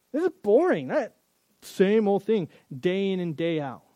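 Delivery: sulky griping voice; whiny complaint. Retold or imitated. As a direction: whine it like a bored kid.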